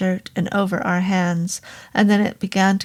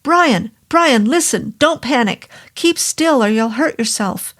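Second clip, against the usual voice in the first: higher, louder sharp command; urgent snap; 4 semitones higher, 4 dB louder than usual. Acted. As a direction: snap him out of his panic. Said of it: "Doctor Jarvis snapped".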